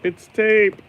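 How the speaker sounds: high, loud sudden exclamation; surprised. Real, not acted. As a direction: blurt it out in surprise. Discovers the tape, exclaims.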